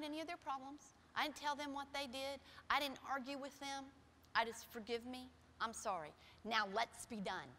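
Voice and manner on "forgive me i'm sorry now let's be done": humbly. Retold or imitated. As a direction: ask forgiveness gently. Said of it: "I did it humbly".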